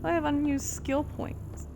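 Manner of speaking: hiccuping between words; talking with the hiccups. Real, not acted. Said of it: "I've got the hiccups".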